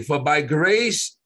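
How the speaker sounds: slow, measured scripture reading. Real, not acted. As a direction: read it out slowly. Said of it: "I wanna read it slowly".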